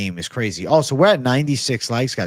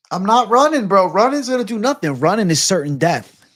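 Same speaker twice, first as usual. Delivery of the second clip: much higher, louder defiant yell; defiant shout; 9 semitones higher, 6 dB louder than usual. Real, not acted. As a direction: shout it like you refuse to back down. Defiant stance facing a lion.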